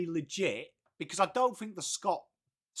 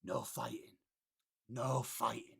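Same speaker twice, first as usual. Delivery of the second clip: Peaky Blinders gangster; 7 semitones lower, 8 dB quieter than usual. Pretend. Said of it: "go into a wedding now and be like".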